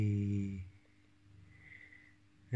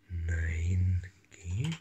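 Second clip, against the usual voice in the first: 1 whispered; 4 semitones lower than usual. Real, not acted. Whispering to kitten.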